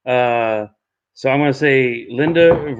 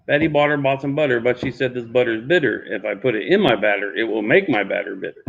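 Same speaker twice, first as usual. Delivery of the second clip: tongue twister recited; 5 semitones lower than usual. Shown as a demonstration. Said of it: "Yes, that's what I just did".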